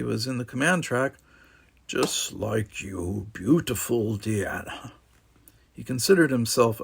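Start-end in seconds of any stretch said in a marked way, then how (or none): 1.9-4.9 smooth flirt. Acted. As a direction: say it slowly like a smooth charmer. Vanden flirting.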